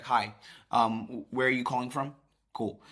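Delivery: disinterested and detached; not invested. Shown as a demonstration. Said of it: "not invested".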